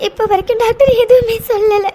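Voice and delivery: tearful pleading, voice catching; crying. Acted. Scared girl telling Hitler about the bleeding, crying. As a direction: sob it out while explaining the bleeding. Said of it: "அழாதடி".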